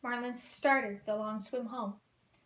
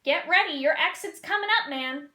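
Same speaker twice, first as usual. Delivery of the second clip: loud, higher, easygoing surfer dude; laid-back surfer shout; 4 semitones higher, 6 dB louder than usual. Acted. Sea turtle calling to the fish, relaxed surfer dude. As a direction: call it out like a chill sea turtle.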